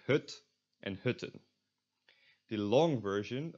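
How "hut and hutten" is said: "hut" and "hutten" with short front rounded vowel; lax U. Shown as a demonstration. Teacher reads example words, lax rounded u in "hut" and "hutten". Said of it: "So you get".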